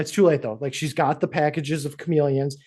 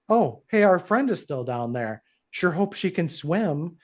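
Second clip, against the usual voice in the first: creepy line; 2 semitones higher than usual. Retold or imitated. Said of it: "the creepiest, like, line".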